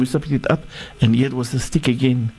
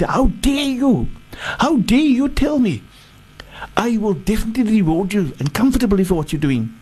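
agitated Pharaoh; 5 semitones higher than usual. Acted. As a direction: drag out how dare you, high and affronted. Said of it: "Fir'aun became so agitated".

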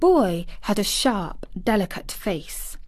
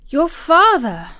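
high, loud surprised gasp; startled gasp of disbelief; 8 semitones higher, 6 dB louder than usual. A narrator's reading. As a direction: catch the breath on the question. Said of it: "gasped Mary".

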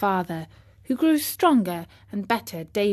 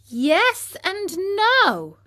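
unsure; 9 semitones higher, much slower than usual. Acted. Pinocchio hesitant reply.

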